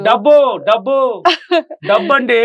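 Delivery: excited, greedy demo of wanting money; eager money. Shown as a demonstration. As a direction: answer like money is the only thing you crave. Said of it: "నన్ను అడగండి".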